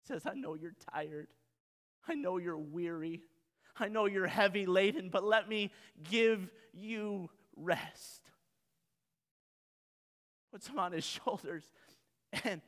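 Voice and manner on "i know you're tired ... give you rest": tender. Retold or imitated. Shepherd gently comforting the tired sheep, softly. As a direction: comfort him like a weary child.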